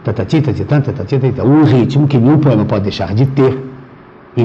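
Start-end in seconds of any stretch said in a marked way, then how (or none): 0.0-1.4 tatati, tatitã chanted in even beats, stress on the last syllable; rhythmic syllable chant of the verse metre; scanning the metre. Shown as a demonstration. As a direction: tap out tatati, tatitã like a metronome. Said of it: "O metro".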